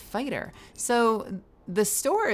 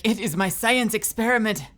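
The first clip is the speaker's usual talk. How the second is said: loud, rising, indignant alien voice; mock Javik rant; 3 semitones higher, 7 dB louder than usual. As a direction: rant like a possessive alien scientist. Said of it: "He's like".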